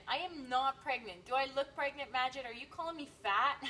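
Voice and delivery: loud, teasing outrage; mock offended. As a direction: act affronted for laughs. Mock offence at pregnancy question.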